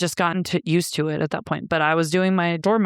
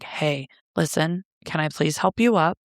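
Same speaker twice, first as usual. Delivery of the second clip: calm, soothing. Retold or imitated. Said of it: "I was so calm".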